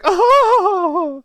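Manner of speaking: sudden high roar; roaring grunting brute. Retold or imitated. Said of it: "he would just be like".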